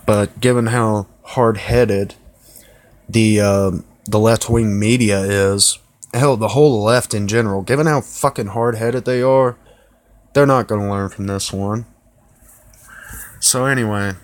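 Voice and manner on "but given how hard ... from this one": talking around a cigarette; cigarette in mouth. Real, not acted. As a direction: lit cigarette between the lips. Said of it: "gotta light a cigarette for this one".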